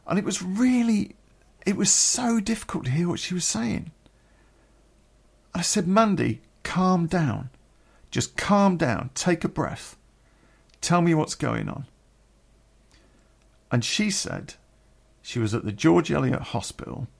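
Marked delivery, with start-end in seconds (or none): 5.9-11.9 higher-pitched, insistent soothing; steady a distraught caller, firmly and slowly; calming someone down. Retold or imitated. Friend on phone to sobbing woman, calming her.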